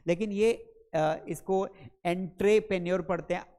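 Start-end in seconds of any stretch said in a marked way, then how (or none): 2.1-3.0 एंट्रेप्रेन्योर with "en-tray" at the start; odd mispronunciation. Shown as a demonstration. Teacher showing an odd misreading, एंट्रेप्रेन्योर with "entray". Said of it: "अजीब पढ़ते हैं".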